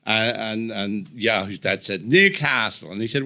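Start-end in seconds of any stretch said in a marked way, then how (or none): 2.1-2.9 imitated Australian dad, shaky grasp of the accent; unconvincing Australian twang; attempted Australian accent. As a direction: have a go at Australian. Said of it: "Why is Australian the one accent you can't do?".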